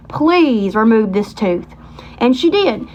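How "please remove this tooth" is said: slow, drawn-out pleading; retold plea. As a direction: stretch it out like begging a favour.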